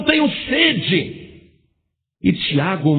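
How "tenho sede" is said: faint dying words. Acted. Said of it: "Suas últimas palavras foram".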